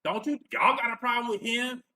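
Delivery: lightly hammed-up mock indignation, pitch lifting; half-hearted impersonation of someone leaping to a defence; Antonio Moore. Host mimics Antonio Moore defending his daddy, half-hearted impersonation. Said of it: "I can't go full blown with this impersonation".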